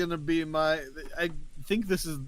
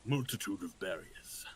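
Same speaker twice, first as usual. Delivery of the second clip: put-on old man voice; 5 semitones lower, 7 dB quieter than usual. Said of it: "doing old man voice today".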